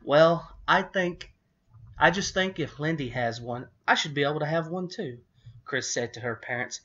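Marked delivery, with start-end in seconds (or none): 0.0-5.2 high, fast pleading. A narrator's reading. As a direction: beg eagerly and quickly. Chris pleads to parents.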